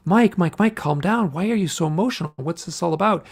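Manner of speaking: retold urgent calming. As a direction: imitate someone talking down an agitated patient. Retold hypnotist trying to calm him.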